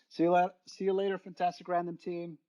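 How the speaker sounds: high, fast squeaky duck voice; squeaky rubber duck. Pretend. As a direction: chirp it out like a bath toy. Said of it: "And the rubber ducky says goodbye".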